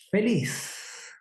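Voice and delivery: "Feliz" said with real cheer, falling at the end; mean it when you say you're happy; a sincerely happy "Feliz"; convincing happy. Shown as a demonstration. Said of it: "está transmitiendo el sentido que quiere".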